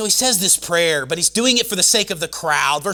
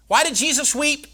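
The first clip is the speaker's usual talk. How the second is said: preaching; 10 semitones higher, 4 dB louder than usual. Acted. Preaching at full force.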